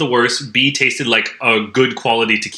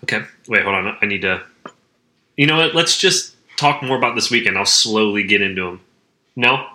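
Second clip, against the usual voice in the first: smacking lips between words. Real, not acted. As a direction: talk with audible lip smacks. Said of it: "Sorry for the lip smacking".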